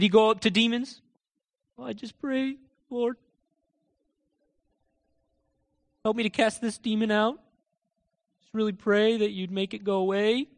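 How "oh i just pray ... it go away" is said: soft, hesitant mock pleading; mock timid prayer. Preacher parodies praying over demons, mock timid pleading. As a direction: pray meekly with long pauses, hammed-up. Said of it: "He talked like that?".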